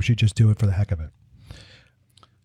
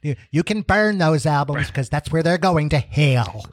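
fire-and-brimstone preacher condemning; Jerry Falwell preacher voice; 3 semitones higher than usual. Acted. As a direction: thunder it like a TV evangelist. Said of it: "channeling my inner Jerry Falwell".

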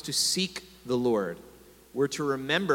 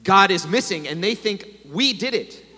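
gasping for breath; 3 semitones higher, 4 dB louder than usual. A narrator's reading. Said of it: "gasping for breath".

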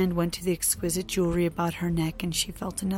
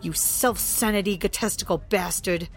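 angry rant; 4 dB louder than usual. Acted. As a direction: tear into him. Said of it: "continue her rant".

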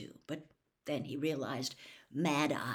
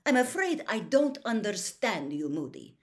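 high, loud feigned disdain; lofty, dismissive, falling at the name; disdainful; 6 semitones higher, 6 dB louder than usual. A narrator's reading. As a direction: act as if he's beneath your notice. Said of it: "he was trying to sound disdainful".

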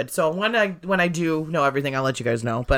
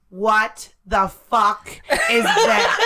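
mom's shocked outburst; much slower than usual. Retold or imitated. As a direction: mimic a mother's shocked shriek. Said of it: "my mom goes".

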